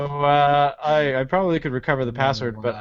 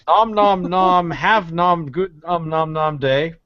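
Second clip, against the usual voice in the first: munching noises; 3 semitones higher, 5 dB louder, slower than usual. Pretend. Pretending to eat, playful.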